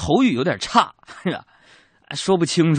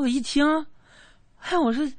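ordinary talk

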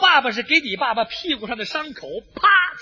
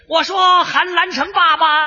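calling out; 3 semitones higher, 3 dB louder, slower than usual. Acted. Calling across to the enemy side.

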